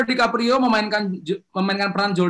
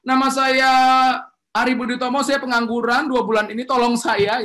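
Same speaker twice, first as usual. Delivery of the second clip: higher, pleading self-introduction as a jobless man; mock pitiful intro begging for work; weak self-introduction; 5 semitones higher than usual. Shown as a demonstration. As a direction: introduce yourself meekly and ask for help. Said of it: "itu bisa juga ya kenalan, tapi itu bukan kredensial".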